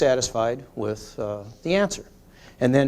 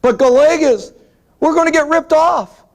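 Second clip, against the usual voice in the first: higher, louder whiny employee imitation; mock worried employee; 13 semitones higher, 8 dB louder than usual. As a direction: play the fretting clerk, tongue in cheek. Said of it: "what the employees say".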